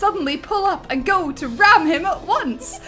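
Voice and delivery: laughing while reading. Real, not acted. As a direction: push through the giggles.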